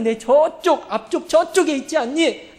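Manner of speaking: put-on sorrowful call to the arrow boy; sad shout. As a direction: cry out with grief in the voice. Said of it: "라고 내가 슬프게 외치거든".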